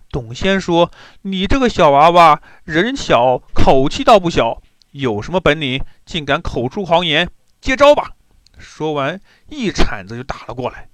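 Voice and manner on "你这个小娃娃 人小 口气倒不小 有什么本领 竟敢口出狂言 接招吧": mock the boy, then bellow the attack; scornful bandit taunt.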